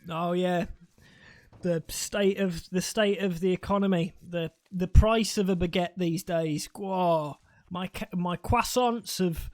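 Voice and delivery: mock French accent. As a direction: sigh over baguette prices like a fake Frenchman. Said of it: "speaking French to each other in our French accents".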